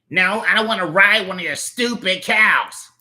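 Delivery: angry. Acted. Character snaps rejecting offer.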